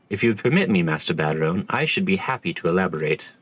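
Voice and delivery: a lightly voiced stiff commodore. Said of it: "oh, wait, this is a different voice".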